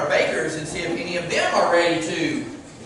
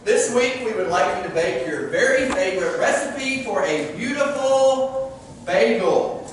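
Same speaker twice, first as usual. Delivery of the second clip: excited host; 4 semitones higher than usual. Acted. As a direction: greet them with big energy. Host greeting bakers.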